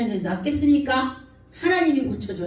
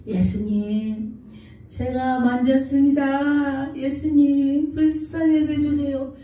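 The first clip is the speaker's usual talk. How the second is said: pleading; slower than usual. Acted. Woman pleading with Jesus in story.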